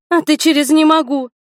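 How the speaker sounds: high, loud defiant comeback; indignant retort. Acted. Li shouts back at Hiro over his refusal, high and loud. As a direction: throw his words back at him loudly.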